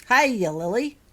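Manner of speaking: put-on big friendly giant greeting a little girl; jolly giant greeting. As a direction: boom a friendly hello. Giant Hagrid greets child.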